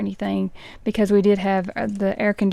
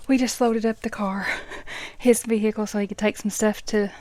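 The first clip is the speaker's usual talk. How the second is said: slightly winded from the stairs; out of breath. Real, not acted. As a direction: talk while still catching your breath. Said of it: "So if I'm out of breath".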